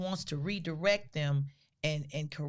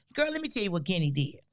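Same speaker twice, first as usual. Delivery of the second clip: high, quick tattling mother on the phone; gossiping mother; 4 semitones higher, 4 dB louder than usual. Retold or imitated. Mother complaining to her sister on the phone, high and lively.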